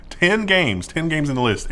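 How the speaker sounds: talking through hiccups; hiccuping while eating. Real, not acted. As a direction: hiccups breaking the words. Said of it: "I've got the hiccups".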